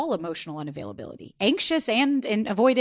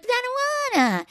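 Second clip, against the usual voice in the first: put-on playful baby-talk pout. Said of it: "we do a little baby talk".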